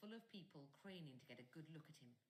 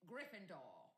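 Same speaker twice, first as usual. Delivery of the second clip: hat shouts; 3 semitones higher, 4 dB louder, slower than usual. A narrator's reading. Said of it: "the hat had shouted".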